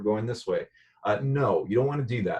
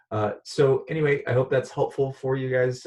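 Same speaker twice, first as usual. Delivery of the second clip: cheerful; 5 semitones higher, 4 dB louder than usual. Real, not acted. Cheerful sign-off.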